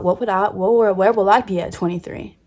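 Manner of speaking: a hint of a dreamy thirteen-year-old; lightly voicing her younger self, wondering aloud; little girl wondering. Thirteen-year-old asking herself about her future, lightly voiced. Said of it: "little old me then thought".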